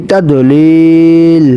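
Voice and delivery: তাদলিল stretched out slowly and ended on a closed l; slow pausal reading. Shown as a demonstration. Teacher modelling the stop for students, তাদলিল slow and closed. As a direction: draw out তাদলিল syllable by syllable and stop on the l. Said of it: "অফ করলে".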